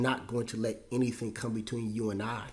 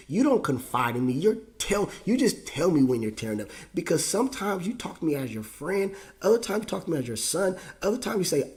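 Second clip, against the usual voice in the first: higher, cracking voice, fighting back tears; real grief pushing the pitch up and thin; voice breaking; 4 semitones higher, 4 dB louder than usual. Real, not acted. Remembering his late dad, voice breaking with tears.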